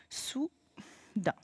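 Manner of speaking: Soudain whispered softly. Shown as a demonstration. Teacher shows the pupil the new word, whispered. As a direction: breathe out Soudain as a secret.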